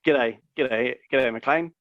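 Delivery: put-on light New Zealand accent; lightly voiced Kiwi villain. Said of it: "just a Kiwi accent".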